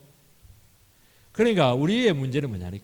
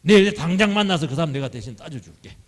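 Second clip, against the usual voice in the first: 편들며 발끈; 3 semitones higher, 6 dB louder than usual. Acted. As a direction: jump to their defence, voice raised. Acting an indignant supporter. (대신 발끈해 주는 척)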